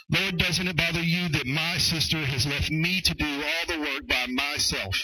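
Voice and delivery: self-centred protest with "my", "me", "myself" highlighted; stress on me's and my's. Acted. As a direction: punch "my", "me" and "myself". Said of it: "let me read it again".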